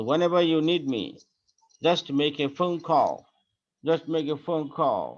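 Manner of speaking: slow, deliberate read for students; slow teaching read. Shown as a demonstration. Teacher reading slowly to students. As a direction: spell it out slowly for the class. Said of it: "ব্রিটিশরা যখন উচ্চারণ করে".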